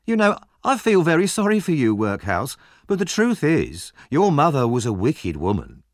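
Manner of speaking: high mock sympathy turning to insult; bully growing bolder, pitched high; emboldened taunting. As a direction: feign pity, then drive the insult home. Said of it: "Noah grew braver".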